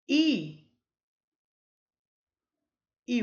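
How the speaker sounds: I called out loud and high; name the letter I boldly. Shown as a demonstration. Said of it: "são classificados como semivogal".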